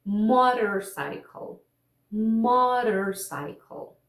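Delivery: slow "motorcycle" with a tapped T; stretched-out American "motorcycle" with flap T; flap T demo. Shown as a demonstration. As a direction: model "motorcycle" slowly, flicking the T like a tap. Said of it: "vamos ver alguns exemplos aqui".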